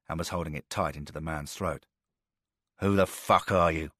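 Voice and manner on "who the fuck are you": growled. Acted. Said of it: "Porter growled".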